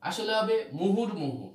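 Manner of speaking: slow, careful মুহুর মুহু with a clear r; teacher correcting মোহর to মুহুর মুহু; correct pronunciation. Shown as a demonstration. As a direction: spell out মুহুর মুহু slowly, stressing the r of মুহুর. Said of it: "এখানে হয়ে গেছে মোহর মুহু".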